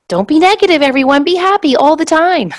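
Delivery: high, loud sing-song cheer; mock cheerful. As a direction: gush it like a cheesy slogan. Mocking a cheery slogan.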